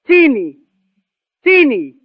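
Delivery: a touch of an anxious mother calling out; mild mother's cry. Retold or imitated. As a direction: call her name with a hint of distress. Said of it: "she cried".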